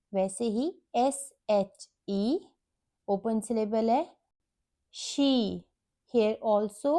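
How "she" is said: "she" with a held ee; long E sound. Shown as a demonstration. Teacher shows an open syllable word, long ee held. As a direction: draw out the vowel in "she" as a long ee. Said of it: "E makes long".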